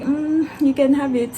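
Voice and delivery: giggling through "you can have it"; laughing giving in. Retold or imitated. Student to staff about her phone, laughing helplessly.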